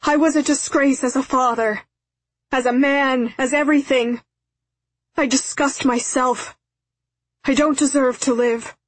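high, loud, desperate apology; screaming plea. A narrator's reading. Father apologises to daughter up the hill, screaming. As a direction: cry out to her, begging to be believed. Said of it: "again he began screaming".

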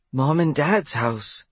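slow, choking out the words; choked up. Acted. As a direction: force it out through tears. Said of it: "choked out the words".

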